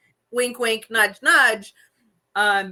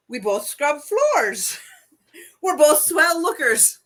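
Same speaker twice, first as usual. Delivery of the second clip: hammed-up dame voice climbing higher; Ma Kelly; 6 semitones higher than usual. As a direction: count off shared traits, building to the punchline. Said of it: "when Ma Kelly goes to talk".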